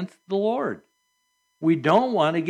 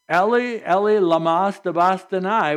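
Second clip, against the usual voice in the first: crying out; 3 semitones higher, 4 dB louder than usual. Retold or imitated. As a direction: call out to God, voice lifted. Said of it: "cried out in a loud voice".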